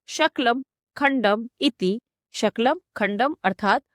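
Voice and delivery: शकलम with a sh sound, sha-kalam; wrong shakalam. Shown as a demonstration. Teacher showing the mistaken form, शकलम with sh. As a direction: start शकलम with sh, not s. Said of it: "दोषपूर्णम उच्चारणम".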